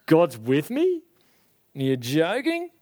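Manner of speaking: mildly scoffing, rising questions; arrogant disbelief. Acted. Sufferer answers "God's with ya", mildly scornful. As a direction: query it with a touch of scorn. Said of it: "you get arrogant towards God".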